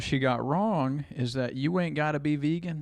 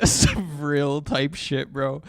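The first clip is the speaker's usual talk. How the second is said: slow, laughing and louder; 5 dB louder, much slower than usual. Real, not acted. Streamer mocking a vegan graphic, laughing loudly. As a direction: crack up mid-sentence.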